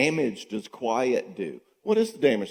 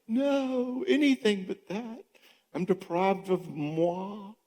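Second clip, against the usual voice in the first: much higher, slowing on the last line; hammed-up mock despair; 10 semitones higher, slower than usual. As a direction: melodramatic fake wail of loss. Mocking the daughter's silent treatment.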